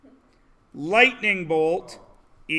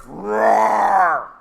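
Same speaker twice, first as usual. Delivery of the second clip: mock roar. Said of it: "And then you hear".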